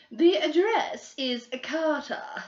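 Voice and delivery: breathy secret whisper. Acted. Girl whispering the hidden address to the detectives. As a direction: let them in on a secret.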